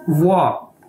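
वाह said short, ending on a plain 'aa'; वाह with no 'o' glide at the end; Chinese word pronounced. Shown as a demonstration. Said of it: "उसकी pronunciation क्या है". (वाह को छोटा और साफ़ 'आ' पर ख़त्म करें)

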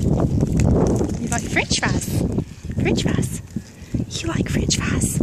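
slow whispered coaxing. Real, not acted. Woman whispers to a goat, offering french fries. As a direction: hush it to the goat.

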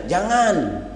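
mildly cried-out "don't"; half-hearted yell with a falling end; mock cry of protest. Preacher coaching wives to refuse husbands, mock cry of protest. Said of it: "Ibu teriak aja".

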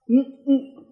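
shout-stuttering no, high and loud; acted stutter on no. Shown as a demonstration. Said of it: "Either you write the stutter out".

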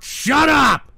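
shouted up high and loud; furious shout of disgust; angry shout. Real, not acted. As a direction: yell it at the troll in disgust. Yelling at troll.

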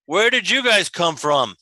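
first giant head speaking; one head of a two-headed giant; two bickering giant voices. Acted. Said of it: "I like that Jim made both heads speak".

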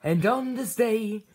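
slow, grand biblical narration; solemn scripture telling. Acted. Preacher telling the congregation a solemn bible story. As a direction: intone it like a holy text.

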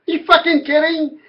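high, laughing "are you kidding me"; laughing disbelief. Real, not acted. Retelling her absurd claim.

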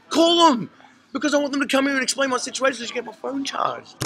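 yelling at the clerk to call the police; defiant shout. Retold or imitated.

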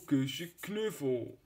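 slow, drawn-out cutesy tone; sweet cooing voice. Acted. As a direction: coo the words slowly and sweetly. Repeated slowly in put-on voice. (langzaam en lief koerend)

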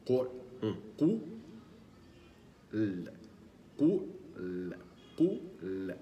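قو heavy and rounded, then ل light with a smile; qaf then light lam. Shown as a demonstration. Teacher drilling the mouth shapes for qaf and lam. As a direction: switch from rounded lips on قو to a smile for ل. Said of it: "ثم نعود إلى الابتسامة لننطق اللام".

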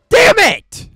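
loud, high outburst; real gamer rage, shouted high; frustrated shout. Real, not acted. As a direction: yell it in sudden anger. Dies mid-sentence while playing.

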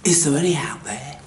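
a hushed search call; whispered question. Real, not acted. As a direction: whisper it into the dark.

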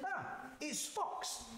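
high little mouse voice; chirpy mouse. Acted. Mouse names the visitor.

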